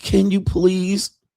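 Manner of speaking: high, near-tearful pleading voice. Describing a woman selling on the street, imitating her pleading. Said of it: "It's gonna be like a plead".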